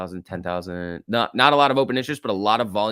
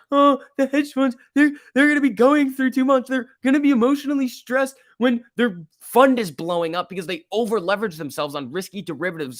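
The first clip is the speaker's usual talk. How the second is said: high, whiny mocking voice, louder; mocking Hester; 9 semitones higher, 4 dB louder than usual. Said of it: "You're like".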